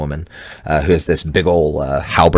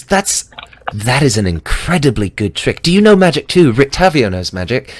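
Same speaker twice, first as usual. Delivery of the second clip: put-on bubbly, much higher girl's voice; chipper young woman; 7 semitones higher than usual. DM voicing Dee greeting the party, high and chipper. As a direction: bounce it out, all sunshine. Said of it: "she's very talkative".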